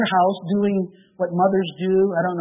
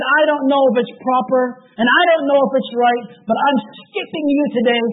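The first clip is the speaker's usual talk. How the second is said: nervous resolve; 4 semitones higher, 4 dB louder than usual. Retold or imitated. Conchita's bold decision.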